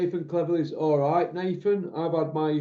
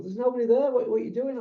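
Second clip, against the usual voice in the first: put-on girlfriend's voice; 7 semitones higher, faster than usual. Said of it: "my bird at the time would go".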